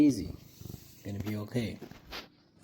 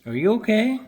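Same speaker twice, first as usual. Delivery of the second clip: high pet talk; 11 semitones higher, 8 dB louder than usual. Real, not acted. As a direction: coo it way up to the pet. Cooing at pet Peter.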